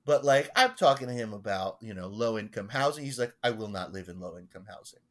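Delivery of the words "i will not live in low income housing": quick, lower refusal, lightly imitated Long Island accent; Gordon's Long Island accent. Parishioner refusing low-income housing, Long Island accent. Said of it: "and this is how he talks".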